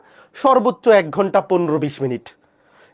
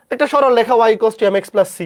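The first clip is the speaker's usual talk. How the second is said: slow dictation; 4 semitones higher than usual. Shown as a demonstration. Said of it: "মুখস্থ করতে হবে এতটুকু".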